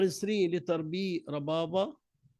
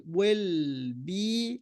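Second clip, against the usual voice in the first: slow careful model. Shown as a demonstration. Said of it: "we say".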